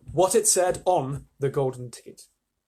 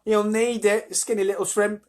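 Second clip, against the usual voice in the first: put-on higher, louder teasing girl; laughing taunt; 6 semitones higher, 4 dB louder than usual. A narrator's reading. Girl taunts the skinny boy, laughing. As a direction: tease with a laugh in it. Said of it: "a girl said, laughing".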